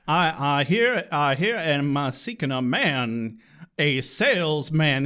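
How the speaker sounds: lightly voiced blustery Southern cartoon rooster; Foghorn Leghorn. Cowboy wrongly put into Death of a Salesman, hint of cartoon bluster. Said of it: "He's basically Foghorn Leghorn".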